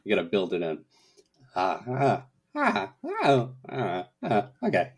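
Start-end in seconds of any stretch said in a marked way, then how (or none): 1.5-4.9 halting Walken warm-up sounds; finding the Walken voice. Shown as a demonstration. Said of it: "a ramp up to Christopher Walken".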